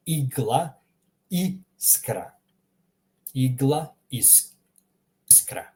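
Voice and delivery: "igla, iskra" as EEG-lah, EES-krah; Croatian I. Shown as a demonstration. Teacher gives examples, "igla, iskra" starting with ee. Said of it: "I is read more like the E".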